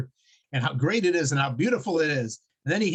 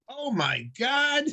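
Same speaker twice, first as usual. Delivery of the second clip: terrified gasp; 8 semitones higher, slower than usual. Acted. Atheist sees bear over him.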